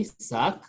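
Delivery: SAC with an open A and final K sound; French pronunciation. Shown as a demonstration. French teacher demonstrates letter A, careful "sac". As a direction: say "sac" slowly, vowel as "ah". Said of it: "for the French word".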